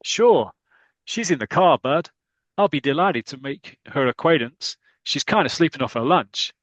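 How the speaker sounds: lightly voiced swaggering American; brash stranger. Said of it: "this guy goes".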